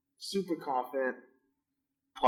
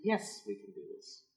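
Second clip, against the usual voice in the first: hushed mock; 3 semitones higher, 14 dB quieter than usual. Mocking the store's false promise.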